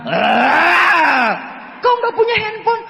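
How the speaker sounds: high, laughing mock wife line; laughing retold line. Repeating his wife's jab, laughing.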